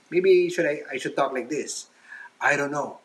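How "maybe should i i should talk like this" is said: a second put-on voice, slowed at first; another modulated voice. Shown as a demonstration. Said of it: "should I start modulating my voice".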